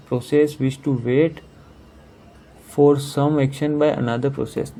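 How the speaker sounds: slowly reading out each word of the question; slow, deliberate question reading; slow read-aloud. Shown as a demonstration. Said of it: "rereads the option".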